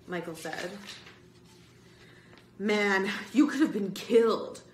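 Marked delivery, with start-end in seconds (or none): 2.6-4.6 emphatic declaration. Acted. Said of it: "Bird declared".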